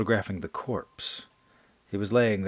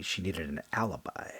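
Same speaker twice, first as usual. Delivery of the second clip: whispered; 3 semitones lower, 6 dB quieter than usual. A narrator's reading. Narration sinks to whisper.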